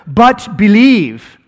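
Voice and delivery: slow, gentle urging; slow tender encouragement; encouraging. Retold or imitated. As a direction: coax him into faith slowly. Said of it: "there's the encouragement".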